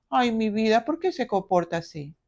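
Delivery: a hint of indulgent pleading; mild mock coddling. Mother indulging a misbehaving child, mild mock softness. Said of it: "ante un mal comportamiento".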